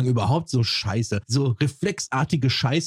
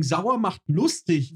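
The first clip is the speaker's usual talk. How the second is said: mocking quote; 4 semitones higher, slower than usual. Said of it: "Was ein Quatsch".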